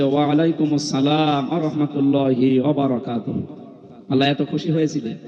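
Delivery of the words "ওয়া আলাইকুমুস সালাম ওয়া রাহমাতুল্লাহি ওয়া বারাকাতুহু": measured recitation of the salam reply; full formal reply. Retold or imitated. Preacher retells the angels answering Adam, full formal reply. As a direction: draw out each phrase in full. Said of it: "সবাই বলেছিল".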